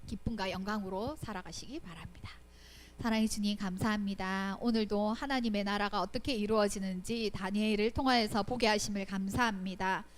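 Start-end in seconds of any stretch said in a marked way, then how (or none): 3.0-10.1 steady, earnest prayer voice; closing prayer. Real, not acted. Preacher closing the lesson, praying earnestly for the children.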